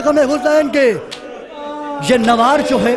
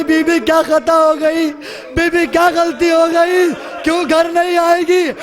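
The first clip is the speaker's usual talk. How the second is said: mildly raised, distressed questioning; lamenting; 2 semitones higher than usual. Acted. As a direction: voice a woman's anguished lament, with restraint. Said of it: "ماتم کرنے لگی". (ہلکے نوحے کے انداز میں فریاد)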